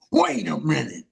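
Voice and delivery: put-on high, choked-up voice of an old toothless vet; old street vet, incredulous and cracking; old vet's disbelief. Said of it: "he looks at me and goes".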